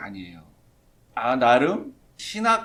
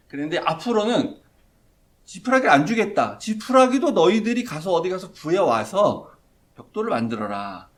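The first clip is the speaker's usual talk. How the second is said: harsh order; 4 semitones higher, 6 dB louder than usual. Retold or imitated. Pharaoh's harsh new order.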